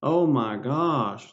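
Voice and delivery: slow, drawn-out mock awe; imitating doctor's excitement. Doctor marveling at the patient's mole, slow mock excited awe. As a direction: stretch it like a thrilled doctor. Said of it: "like that".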